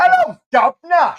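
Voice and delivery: high loud greeting; loud high cheery hello; yelled catchphrase. Acted. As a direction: bellow it out gleefully.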